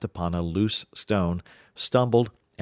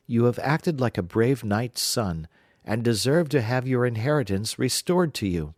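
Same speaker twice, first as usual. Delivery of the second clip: slightly higher, gracious fairy; fairy lady; 4 semitones higher than usual. Acted. Fairy lady lightly voiced praising Jack. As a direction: praise him like a noble fairy. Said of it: "said she".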